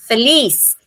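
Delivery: "Feliz" said fe-LIS, last syllable stressed; "Feliz" with its second syllable lifted. Shown as a demonstration. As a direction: lean on the liz of "Feliz". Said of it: "lis yung mataas".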